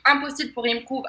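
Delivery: English "improve" said with a French accent; French accent on the English word. Real, not acted. Trainer naming the post-its for learners, French-accented English. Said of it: "mon accent anglais est magnifique".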